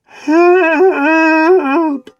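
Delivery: high, loud shout for help. A narrator's reading. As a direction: call out for help, stranded. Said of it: "lying on the ground shouting".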